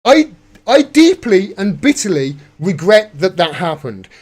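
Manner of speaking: stammering mock apology, lightly voiced; a touch of a faltering politician; mocking the Prime Minister. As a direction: copy his halting regret with scorn. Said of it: "clip of Prime Minister".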